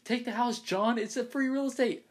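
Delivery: high, loud meme voice; meme impression. Quoting a famous video to friends, high meme voice. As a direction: do the free real estate guy, way up high. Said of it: "that video where he's like".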